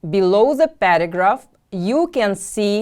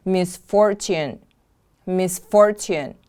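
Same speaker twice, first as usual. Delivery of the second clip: "Misfortune" with FOR stressed, then falling; weight the middle syllable of "Misfortune" for learners; stress on second syllable. Shown as a demonstration. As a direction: model "Misfortune" as mis-FOR-tune. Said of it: "The stress is on the second syllable".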